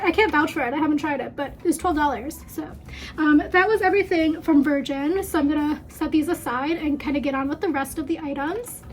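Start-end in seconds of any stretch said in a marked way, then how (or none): 3.2-8.8 slightly winded, talking between breaths; a bit breathless from moving around. Real, not acted. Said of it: "Sorry, I'm out of breath now".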